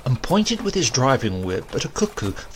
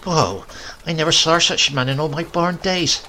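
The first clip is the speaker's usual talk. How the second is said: put-on higher, scolding old woman; a mild mock scold; scolding grandmother; 6 semitones higher, 4 dB louder than usual. A narrator's reading. Grandmother scolding her husband, mild scold.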